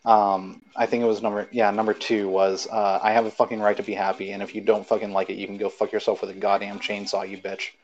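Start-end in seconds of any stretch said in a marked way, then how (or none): 3.0-7.7 dramatic reading. Acted. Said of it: "I'll read it out dramatically".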